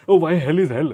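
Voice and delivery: loud, high, put-on whining voice; whiny mock complaint. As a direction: mimic a clueless complainer, shouting. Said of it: "It's like".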